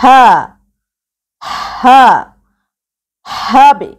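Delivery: হা with a breathy puff, then হবে with a bounced ব; qalqala demo. Shown as a demonstration. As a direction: release air on হা and bounce the ব in হবে. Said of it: "এরকম ভাবে উচ্চারণ করতে হবে".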